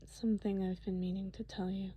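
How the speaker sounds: nervous hushed whisper. Acted. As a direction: confess it in a breathy whisper.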